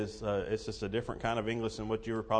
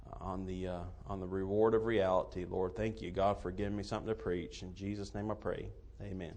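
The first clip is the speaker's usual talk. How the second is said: prayer. Real, not acted. Pastor leads opening prayer.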